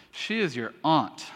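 "is" stressed, falling at the end; pointed emphasis. Shown as a demonstration. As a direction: lean on "is". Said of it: "you have to say it like that".

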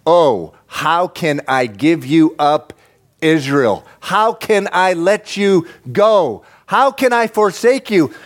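slow, drawn-out cry that builds in pitch; God pleading. Acted. God pleads with Israel after rejection, anguished. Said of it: "this is what God says to Israel".

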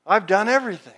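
mock boastful protest; rich young ruler. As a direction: act out a man proudly declaring his record. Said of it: "the rich young ruler came up to Jesus and".

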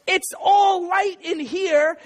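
high, slow, emphatic storybook voice; Big Bear. A narrator's reading. Big Bear pointing out the lit cave, insistent. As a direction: stretch it out as an insistent parent bear. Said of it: "Big Bear says".

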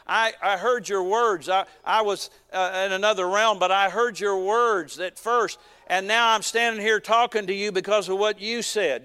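emphatic, deliberate messenger's declaration; lightly voiced angel. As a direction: drive home the angel's message to Daniel. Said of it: "What did the angel say when he appeared".

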